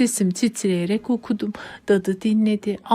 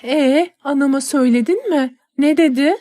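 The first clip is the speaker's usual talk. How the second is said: anxious eagerness; 6 semitones higher, 4 dB louder than usual. Acted.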